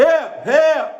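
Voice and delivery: high, loud mock call for help; mock cry for help. Neighbor mocking a woman's high loud cry for help. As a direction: squeal it like a scared neighbor. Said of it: "she start hollering".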